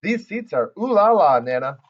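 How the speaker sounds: put-on gushing little girl. Junie admires the fancy car seats.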